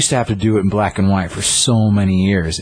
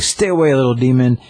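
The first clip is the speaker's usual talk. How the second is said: high, louder warrior's warning; mock warning shout; 6 semitones higher, 3 dB louder than usual. Usagi warns off the chibi demon, high mock shout. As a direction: brandish the words at a small monster.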